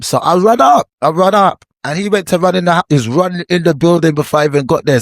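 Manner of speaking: fired up reliving the chase; excited telling. Real, not acted. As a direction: pitch climbing as the story peaks. Excited retelling of confrontation.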